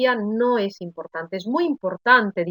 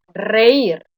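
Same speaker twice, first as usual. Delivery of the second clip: Reír with its final Í stressed; 4 dB louder than usual. Shown as a demonstration. Teacher giving students the solution, stressed Í in Reír. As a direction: lean on the Í in Reír. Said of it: "la I en todos estos casos se oye con mayor intensidad".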